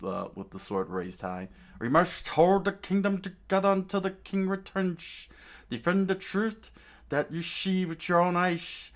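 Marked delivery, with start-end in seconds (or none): 1.8-8.9 loud, higher battle cry; rallying shout. Acted. Chaka rallying the guards with sword raised, loud. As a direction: roar it out to the troops. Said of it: "screamed out to all the guards".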